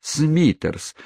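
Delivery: high, drawn-out cry of dismay; mock-horrified chorus exclamation; exclaiming. A narrator's reading. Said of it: "воскликнули остальные двадцать девять воспитанниц".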